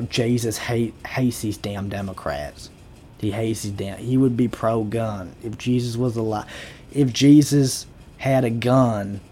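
mock Southern stump speech; Brian Kelly. Candidate preaching guns to voters, fake Southern accent. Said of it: "go full Brian Kelly and I'll be like".

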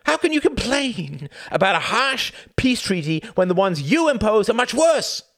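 loud, high, relentless rant; angry tirade. A narrator's reading. Tom berating the bar full of Germans, loud and angry. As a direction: keep shouting them down. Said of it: "he shouted".

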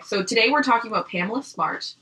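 wet mouth click mid-sentence; a small saliva click while talking; mouth noise. Real, not acted. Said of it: "I made the mouth noise".

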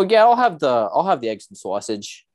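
put-on Boston accent. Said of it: "when I do a Boston accent".

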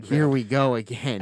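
slow, laughing groan of dread; laughing resignation. Retold or imitated. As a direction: laugh through the dread, drawn out. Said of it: "we went".

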